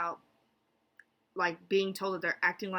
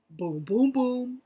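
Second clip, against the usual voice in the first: three punchy booms, last one higher; spoken boom sound effect; 5 semitones higher, 8 dB louder, slower than usual. Acted. Describing a voluptuous character to viewers, punchy booms. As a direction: punctuate it with loud mock booms.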